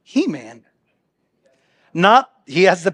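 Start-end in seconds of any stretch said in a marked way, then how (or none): 0.0-0.7 mock He-Man.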